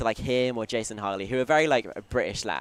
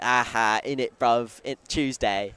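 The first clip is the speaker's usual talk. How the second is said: Australians mimicking a British lad, a bit louder; mocking British accent; 3 dB louder than usual. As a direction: tease him in a hammed-up British accent. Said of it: "laugh at me".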